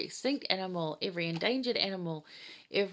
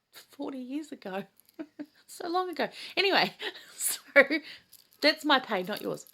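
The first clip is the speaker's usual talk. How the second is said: laughing; 8 semitones higher, 5 dB louder than usual. Real, not acted. Laughing about her age.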